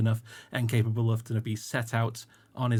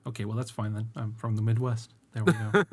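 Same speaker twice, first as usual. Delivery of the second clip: put-on Midwestern American voice; Midwest American accent. Shown as a demonstration. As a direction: settle casually into a standard American accent. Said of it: "probably just anywhere in the Midwest".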